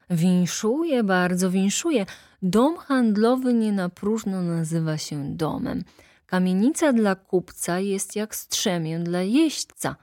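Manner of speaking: smooth, obliging attorney; courtly lawyer. Acted. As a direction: congratulate him with eager politeness. Narrator voices the lawyer.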